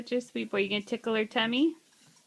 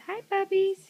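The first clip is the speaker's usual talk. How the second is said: voicing big sister; 10 semitones higher than usual. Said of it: "She says".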